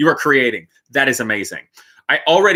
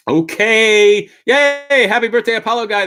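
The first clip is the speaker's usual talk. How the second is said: cheery; 7 semitones higher, 6 dB louder than usual. Real, not acted. Cheering a viewer's birthday.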